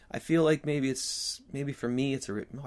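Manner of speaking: slight whistle on the consonants; whistly voice. Real, not acted. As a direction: air whistling through the teeth. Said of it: "I have a whistly voice today".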